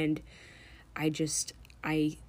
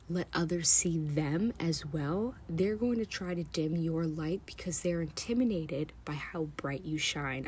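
holding back tears as you speak; choking up. Real, not acted. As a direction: voice tightening with tears. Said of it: "I'm choking up".

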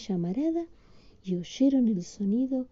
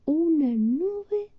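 slow wondrous reveal; 8 semitones higher, much slower than usual. A narrator's reading. Magical reveal in story.

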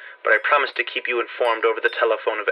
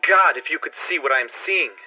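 whispered fear; 4 semitones higher than usual. Acted. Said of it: "called from below in a shaky whisper".

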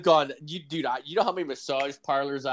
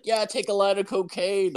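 high, breezy put-on partygoer voice; party host voice; 10 semitones higher than usual. Partygoers offering him cocaine, high breezy put-on voice. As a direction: lightly offer it like it's nothing. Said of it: "they're just like".

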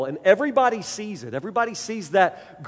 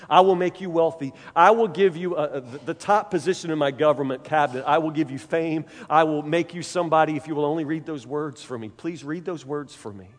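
stammering scared king; 4 semitones lower than usual. Acted. King begging Daniel to read the wall, stammering nervously. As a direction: beg Daniel, tripping over his name.

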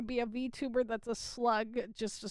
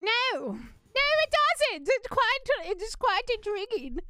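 high put-on posh British voice; mock British accent; 10 semitones higher, 4 dB louder than usual. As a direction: play the refined Englishman. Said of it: "how we're going to speak".

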